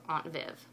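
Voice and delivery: "Aunt" said with a broad ah, "ahnt Viv"; "Aunt" with a long open ah; New England aunt. Shown as a demonstration. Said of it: "my friend from New England".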